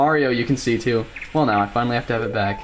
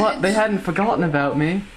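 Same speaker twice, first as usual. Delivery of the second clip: put-on British accent; 4 semitones higher than usual. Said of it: "you make a good British accent".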